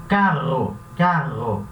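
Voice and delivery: carro com RR vibrante e forte; faça o RR de carro vibrar; rolled double R. Shown as a demonstration. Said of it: "esse som vibrante da garganta". (RR vibrante em carro)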